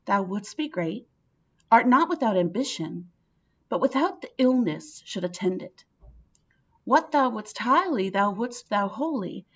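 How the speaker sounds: reads Lady Macbeth's lines with measured weight; dramatic reading. Acted. Teacher reading the soliloquy to the class, measured and dramatic. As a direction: let each clause land.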